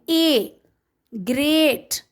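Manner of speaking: "A" sounded alone, then "great" with a long ay; vowel sound demonstration. Shown as a demonstration. Teacher showing one vowel sound, drawing out "A" in "great". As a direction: isolate "A", then draw out "great". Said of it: "we are having one vowel sound".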